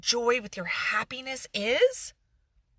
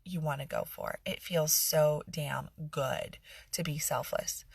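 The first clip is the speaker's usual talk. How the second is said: sarcasm; 4 semitones lower than usual. Pretend. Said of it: "you can hear that sarcasm".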